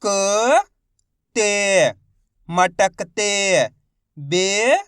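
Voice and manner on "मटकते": drawn-out teacher reading of the whole word; मटकते read out slowly, syllable by syllable; slow blended reading. Shown as a demonstration. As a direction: stretch every syllable of मटकते for a child. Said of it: "अब चलिए आगे देखिए".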